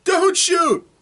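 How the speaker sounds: high, loud panicked plea to hold fire; frantic shout. Acted. Elf running out to stop the crossbow, loud high shout. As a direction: shout it, begging them not to shoot. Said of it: "Glynn comes running out and says".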